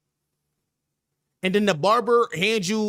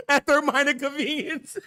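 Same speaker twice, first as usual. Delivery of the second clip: laughing; 7 semitones higher than usual. Real, not acted. Laughing mid-sentence.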